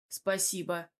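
mildly grumpy, under-energised; grumbled. A narrator's reading. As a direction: grunt it out grudgingly. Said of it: "буркнул я".

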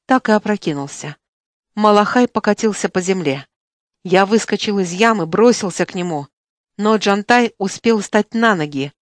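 plain reading voice

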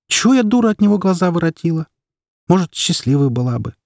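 mother venting to a friend on the phone, fed up; exasperated mother. Acted. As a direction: complain bitterly as the tired mother.

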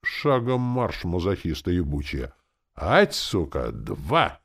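outraged sergeant, starting high and loud; rant, then resume drill commands; cursing parade-ground outburst; indignant. A narrator's reading. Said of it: "возмутился Валера".

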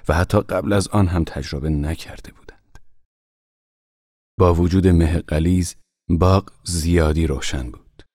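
usual speaking voice

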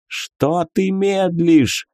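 yelling god. A narrator's reading. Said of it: "заорал тёмный бог".

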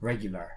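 "Regular" with a clear "gyoo"; U as "you". Shown as a demonstration. Teacher confirms the student's attempt, "Regular" with a "you" U. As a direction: say "Regular" as REG-you-lar, ending down. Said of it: "Recuerda lo que hablamos de la letra U".

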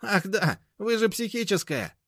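high-pitched taunting insult; nasty jibe. A narrator's reading. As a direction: sneer an insult. Mashka insulting grandma.

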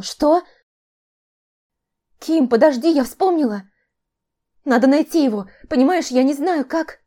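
high, loud, urgent rush; frantic. A narrator's reading. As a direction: blurt it out in a panic. Sister panics, remembers.

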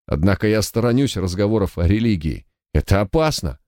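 a frightened guard pleading his case; nervous young guard. Acted.

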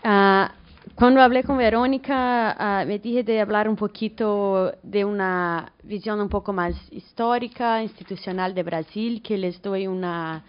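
Spanish with a Portuguese accent; portuñol. Real, not acted. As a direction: Brazilian speaking Portuguese-tinged Spanish. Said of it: "disculpa por el portuñol". (portuñol con acento brasileño)

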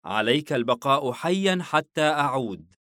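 lightly mock-serious warning; amused teasing. A narrator's reading. Father smiles at son's fear, teasing him. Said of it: "حاييم باسما لخوفه".

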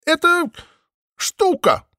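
high bleating sheep retort. A narrator's reading. Mothe bleats back at Maple, anxious and high. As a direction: bleat it, nervous and insistent. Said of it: "проблеяла Мот".

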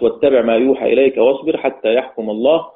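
chanted recitation of the verse; Quran recitation. Shown as a demonstration. Teacher reciting the last verse of Yunus as an example. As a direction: recite the end of Yunus in tarteel. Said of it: "سورة يونس".

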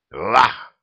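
hint of a barked exclamation; a short mock roar; barked Vah. A narrator's reading. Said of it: "в два голоса рявкнули джигиты". (лёгкий рявк «Вах!»)

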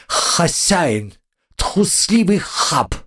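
high squeaky mocking bug; slow taunting insect squeak; cockroach voice. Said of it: "подал голос ... убежища таракан".

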